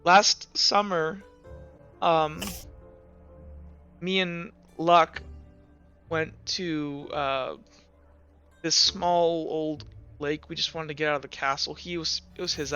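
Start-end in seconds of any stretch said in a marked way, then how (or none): 0.0-10.5 halting, slow delivery with long pauses; understated upset, feeling slowly for each word; mildly tearful, confused. Acted. Confessing last summer's lake trip to a friend, mildly tearful and halting. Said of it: "crying about this".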